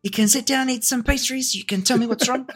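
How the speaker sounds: put-on New Zealand accent. Monk as Kiwi bro consoling the Avatar, New Zealand accent. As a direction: chill New Zealand dude. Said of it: "talking to Taika Waititi about this".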